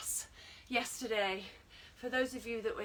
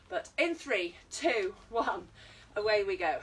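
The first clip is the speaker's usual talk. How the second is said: countdown call; 5 dB louder than usual. Real, not acted. Counting the class in.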